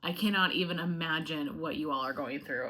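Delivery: holding back crying, barely steady; real emotion about the fires, close to tears; choked up. Real, not acted. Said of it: "I'm sorry to get emotional".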